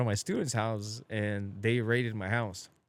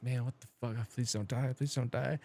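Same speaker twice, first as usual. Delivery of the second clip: scared pleading; 6 dB quieter than usual. Retold or imitated. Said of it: "I was just like".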